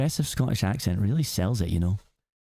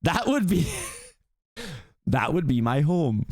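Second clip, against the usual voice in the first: put-on Scottish accent; 4 semitones higher than usual. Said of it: "I can't not hear Scott".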